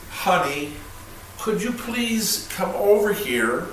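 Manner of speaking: gentle, careful polite ask; polite request. Shown as a demonstration. Husband asking his wife to come over, politely. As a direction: politely ask a spouse over, clearly and unhurried. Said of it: "and how I say it".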